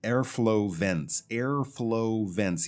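slow, each syllable kept apart in "Airflow vents"; careful teacher's slow model. Shown as a demonstration. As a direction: say "Airflow vents" slowly and distinctly. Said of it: "slow down a little bit there".

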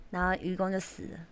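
usual speaking voice

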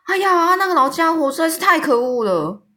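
high, loud outraged exclamation; indignant cry. A narrator's reading. Giant cries out against the cruel orphanage matron, high and loud. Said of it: "友善的大巨人就叫着说".

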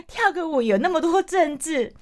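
high laugh spilling into the words. Real, not acted. Laughing to listeners about dance-class politics, high laughing. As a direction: laugh at how absurd it all is.

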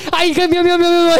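high laughing meow; cat meowing. Retold or imitated. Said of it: "学猫叫".

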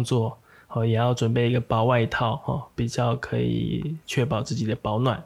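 gentle late-night radio voice. Acted. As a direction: ease them toward sleep gently. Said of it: "比较温柔的感觉？".

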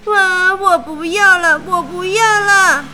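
loud, high sobbing words; crying. A narrator's reading. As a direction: sob out the refusal. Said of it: "哭着说".

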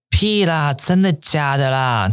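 high, drawn-out disbelief; as if the news is too wild to be true; slow, incredulous 真的假的啦. Shown as a demonstration. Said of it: "这种感觉".

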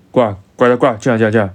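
retold soldier's loud call to come in; calling them in. (模仿士兵大声招呼进来)

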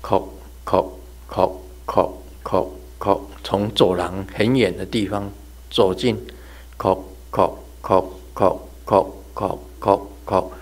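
轻声气音敲出叩叩叩的鞋跟声; 轻轻学远处走近的鞋跟声; 模仿高跟鞋声. Retold or imitated. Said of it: "高跟鞋的声音". (轻声模仿高跟鞋叩叩声)

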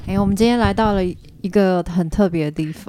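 talking with nose pinched; pinched nasal voice, nose held; pinching nose. Real, not acted. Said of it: "你为什么要捏着鼻子讲话？".

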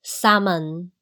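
salmon with silent L and "mun" ending; model pronunciation. Shown as a demonstration. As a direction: say "salmon" for repeating, no L sound. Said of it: "来，最后一起". (带读salmon，L不发音，字尾读“猛”)

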